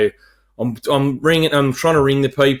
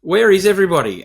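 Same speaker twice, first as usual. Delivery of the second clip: mock baffled call; 7 semitones higher than usual. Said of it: "and I said".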